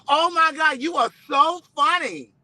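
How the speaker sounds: high-pitched excited fan shout. Retold or imitated. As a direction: squeal it like a starstruck fan. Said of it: "He said".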